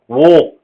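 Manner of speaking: wo with the A turned into an O; rounded British "wo"; British vowel sound. Shown as a demonstration. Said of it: "changed the A to an O".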